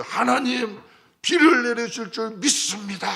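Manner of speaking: high, loud, proclaiming faith; confident prayer. Retold or imitated. Elijah's first prayer before the people, bold high proclamation. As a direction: announce the rain with bold certainty.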